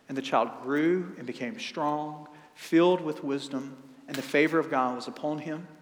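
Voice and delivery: steady, measured reading of the Gospel; scripture reading. Acted. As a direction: read the passage solemnly.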